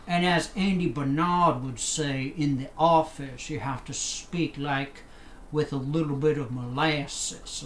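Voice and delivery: put-on light, even Savannah Southern accent; understated Southern accent. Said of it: "as I get into my southern accent here".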